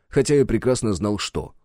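ordinary delivery, nothing marked

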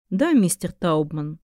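slow, piped voice through tubes; slow mechanical alien voice. Acted. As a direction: speak slowly like a wheezing organ. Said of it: "с помощью механической аудиосистемы".

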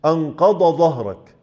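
أنقض ظهرك with ظهرك said as ضهرك; both made dad. Shown as a demonstration. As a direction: slowly turn the ظ of ظهرك into ض. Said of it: "برضو ده خطأ".

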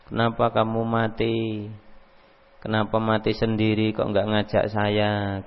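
understated imitation of a mourner crying out words; mock wailing lament. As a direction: drone the lament in a level, subdued voice. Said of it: "Sambil ngomong".

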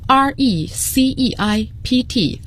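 receipt with a silent P, "ri-SEET". Shown as a demonstration. Teacher showing listeners that the P is silent in receipt. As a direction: say receipt leaving the P unsounded. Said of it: "P字母是不发音的".

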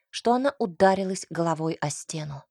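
plain reading voice

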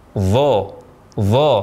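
"Dha" drawn out, thick and emphatic; correct thick dha. Shown as a demonstration. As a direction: model a heavy voiced th on "Dha". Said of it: "angkat pangkal lidah".

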